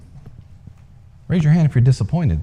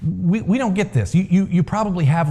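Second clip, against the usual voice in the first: pleading villagers; 7 semitones higher, 3 dB quieter than usual. A narrator's reading. Leaders plead, confused.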